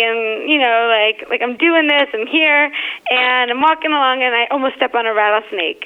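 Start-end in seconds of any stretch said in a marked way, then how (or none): 1.4-2.7 happy. Retold or imitated. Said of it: "kind of, like, happy".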